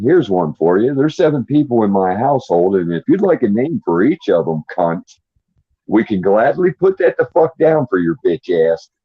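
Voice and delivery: angry mock address to the federal government; defiant rant. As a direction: tell the court off. Ranting at federal courts.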